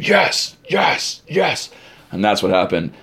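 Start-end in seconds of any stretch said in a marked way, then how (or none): 0.0-1.7 very high, squealed chant without real volume; imitated crowd scream. Two hundred and fifty campers cheering, imitated high scream. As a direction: mimic a screaming crowd in a small falsetto. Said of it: "and screaming".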